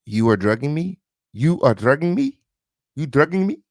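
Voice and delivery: put-on light second-language English accent, questioning rise; imagined second-language accent. Host guesses how she said it, second-language accent. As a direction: try a hint of second-language accent, pitch climbing with each repeat. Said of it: "like, an accent".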